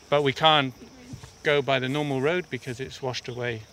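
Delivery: panting out of breath from climbing; breathless, talking mid-climb. Real, not acted. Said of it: "that's why I'm out of breath".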